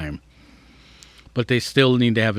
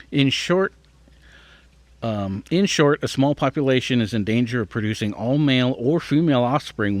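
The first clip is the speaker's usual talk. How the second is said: measured, slightly lifted read-aloud voice; careful article read. Acted. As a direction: read out a science article, clearly phrased.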